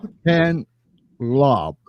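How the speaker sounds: S, Pen, then Lob after a short pause; syllable by syllable. Shown as a demonstration. Host repeats his last name for guest, S, Pen, Lob broken up. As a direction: sound out S, Pen, Lob in parts. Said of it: "it's like".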